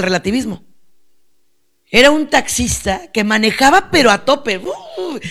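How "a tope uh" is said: high, soft "uuh" of a speeding car; engine whoosh. Retold or imitated. Preacher describing the taxi driver speeding, imitated whoosh. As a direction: imitate a car zooming off at full tilt.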